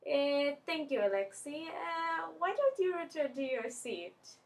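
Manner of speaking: lightly attempted Mexican-accented teacher; polite teacher with a hint of Mexican accent. Teacher sends student back to seat, attempted Mexican accent. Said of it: "in his Mexican accent, which I totally cannot do".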